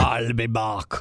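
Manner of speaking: low robotic Austrian; flat machine delivery; Terminator voice. Retold or imitated. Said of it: "he sounds like a computer".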